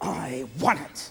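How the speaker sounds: soft, very quiet hissed words. Guiding listeners to picture drawing an arrow taut, demonstrating the phrase while hissing. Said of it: "hiss as you hold that arrow taut".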